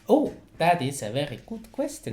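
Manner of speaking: lilting put-on Swedish accent. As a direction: answer in playful Swedish English. Keeps up Swedish accent demo.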